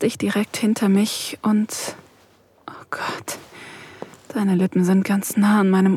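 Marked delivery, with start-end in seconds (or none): 2.7-3.4 softer, gasped whisper. Acted. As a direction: gasp it under your breath. Aroused gasp in erotic scene. (gehauchtes Flüstern)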